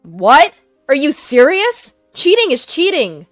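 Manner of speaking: incredulous. Acted. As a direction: scoff in loud disbelief. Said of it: "brother's incredulous response".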